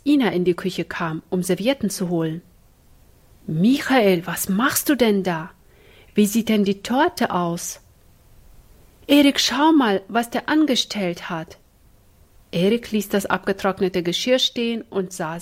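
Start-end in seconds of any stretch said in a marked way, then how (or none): 3.5-7.8 shocked call. Acted. Ina catches Michael at the cake. 9.1-11.6 high, loud call across the kitchen; alarmed sister calling out. Acted. Ina calls her brother over.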